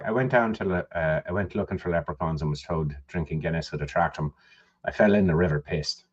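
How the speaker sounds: a fuller Irish accent, low and quiet; proper Irish accent. Shown as a demonstration. Showing his cohost a proper Irish accent reading. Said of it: "if I were to read it in a proper Irish accent".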